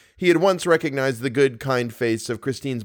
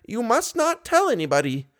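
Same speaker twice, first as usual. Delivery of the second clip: put-on high, hushed old lady secret; a sweet conspiratorial warning; 12 semitones higher than usual. A narrator's reading. Finger to her lips.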